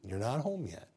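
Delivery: tender whispered repeat of "You're not home yet"; whispered God's voice. Acted. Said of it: "so tenderly said".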